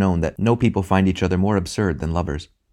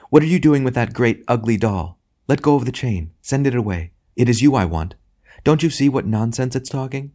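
higher, insistent lady's voice; lively, pleading scolding; exasperated lady; 6 semitones higher than usual. A narrator's reading. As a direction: urge him firmly away from nonsense.

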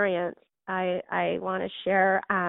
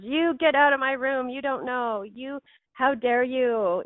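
raised, higher mock outburst, slowing to a crawl on how dare you; imitating a distraught girl ordering her out, raised and higher; retold hysterical outburst; 4 semitones higher than usual. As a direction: replay the girl's furious cry without full force. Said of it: "she was hysterical".

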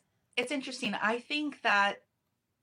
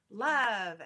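drawn-out, lightly sarcastic "love"; a little sarcastic; 4 dB louder than usual. Shown as a demonstration. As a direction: stretch "love" out with a touch of sarcasm. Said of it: "I say that with a little sarcasm".

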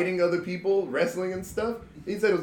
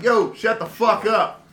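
mock tough yell; 3 semitones higher, 4 dB louder, slower than usual. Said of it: "I was like".

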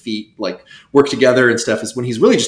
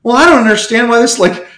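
puzzled talking syllable; 10 semitones higher, 5 dB louder than usual. Pretend. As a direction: play a confused note wondering about its place in the song. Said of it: "it'd be like".

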